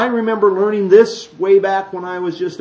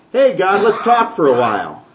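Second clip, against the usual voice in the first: casual chat with God. Retold or imitated. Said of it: "go stand at the door of his tent and go".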